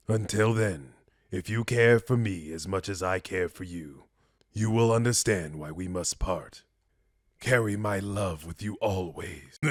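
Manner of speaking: measured, restrained parting speech; noble mutant saying farewell. Acted. Mutant telling a loved one they must part, solemn and restrained. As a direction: let them go gently but firmly.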